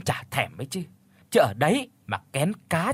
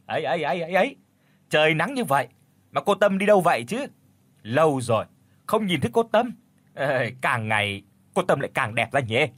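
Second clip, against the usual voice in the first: mocking village lad. Young men draining the pond tease the ugly girl, mock flattery. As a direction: tease her with false sweetness.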